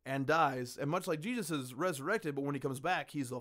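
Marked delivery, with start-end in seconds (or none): none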